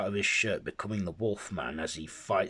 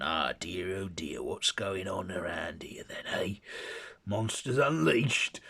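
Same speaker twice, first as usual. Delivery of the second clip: amused Hyde. Acted.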